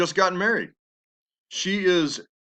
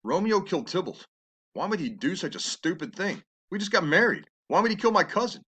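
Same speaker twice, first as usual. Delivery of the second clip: Juliet thinking it through; 3 semitones higher than usual. Retold or imitated. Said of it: "she starts thinking".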